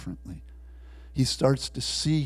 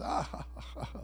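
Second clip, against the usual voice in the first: soft, breath-only mock laugh; imitated laughter; 10 dB quieter, much faster than usual. Guards laugh after a mock execution, imitated laughter. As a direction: fake the captors' laugh, half-hearted. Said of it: "and then they laughed".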